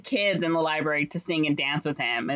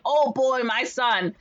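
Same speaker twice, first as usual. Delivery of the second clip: mock delighted mayor; 7 semitones higher, 3 dB louder, slower than usual. Mayor excited.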